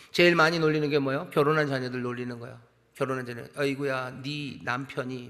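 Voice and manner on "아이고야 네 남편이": put-on slow, softer jeer at a married child; mock a married son or daughter slowly; a light sneering parent, understated. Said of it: "뭐, 이러는 거죠".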